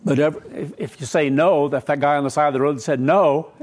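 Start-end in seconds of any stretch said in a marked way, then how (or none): 1.7-3.5 laughing. Real, not acted. Laughing at the roadside scene.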